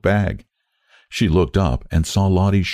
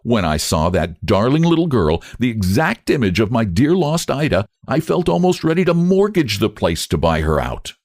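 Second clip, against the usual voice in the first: defiant; 5 semitones higher than usual. Acted. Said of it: "with a defiant accent".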